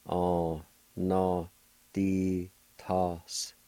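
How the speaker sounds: On, no, di, task split apart in Cherokee; syllable by syllable, slowly and carefully. Shown as a demonstration. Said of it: "It's pronounced like this".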